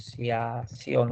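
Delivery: slow, low sounding-out of "asociación". Real, not acted. Teacher writing asociación on the board, sounding it out slowly.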